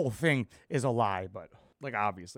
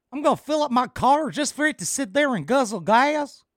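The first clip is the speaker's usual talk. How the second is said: mocking quote; 8 semitones higher, 5 dB louder than usual. Mock quoting the cast member.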